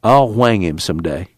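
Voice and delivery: hint of a bitter country man; aggrieved one-eyed man. One-eyed man airs his grievance.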